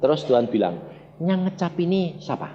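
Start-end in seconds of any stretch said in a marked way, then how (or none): 1.2-2.5 soft, even question, hardly raised; gently whispered-down instruction; calm inner voice. Retold or imitated. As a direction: pass on a quiet prompt from God. God's calm instruction, then repeated.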